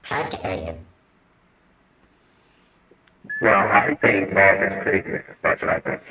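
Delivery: distorted voice changer. Real, not acted. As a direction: talk through a voice changer. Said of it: "with that voice changer, we can't understand you".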